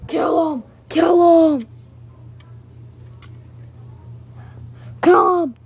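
loud villain command; shouted battle order. Acted. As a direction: yell the order at your minions.

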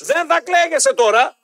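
high, slow, drawn-out telling-off; retold emphatic scolding. Host repeating the scolding of regretful voters, slow and emphatic.

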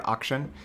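"auction" opening with an "awk" sound; habitual mispronunciation. Shown as a demonstration. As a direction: start "auction" on a back, open vowel. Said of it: "I've always pronounced the".

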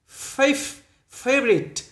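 fav- broken off high, then favorite with a weak middle vowel; clipped v syllable. Shown as a demonstration. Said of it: "đừng đọc là favorite".

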